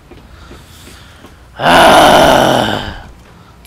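long, loud exasperated exhale; frustrated roar. Real, not acted. Gamer after Pierce kicks explosives, long frustrated roar. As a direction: let out a drawn-out burst of rage.

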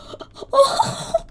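squeaky, breathless laugh; gasp-laugh in disbelief; high-pitched incredulous laugh; high amazed gasping laugh. Real, not acted. Amazed at being rescued.

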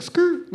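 imitated tire screech; vocal skid noise, tossed off; rapper-style skrrt. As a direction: make the tires go "skrrt". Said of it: "kinda like a rapper".

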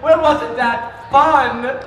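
hammed-up game host. Haunted game show host gloating over contestants. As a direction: ham it up like a wicked TV host.

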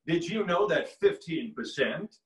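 creepy politician-character impression; Frank Underwood. Giving an insurance pitch as an example, creepy character voice. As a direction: make the sales line sound ominous. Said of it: "He can make anything sound creepy".

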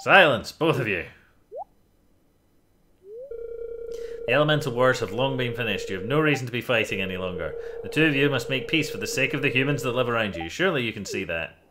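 loud, stern wizard voice; commanding wizard. Acted. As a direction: order the feuding pair to stop.

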